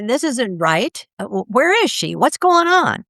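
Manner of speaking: a lost mind calling out in confusion; bewildered consciousness, rising to a high alarmed question. Retold or imitated.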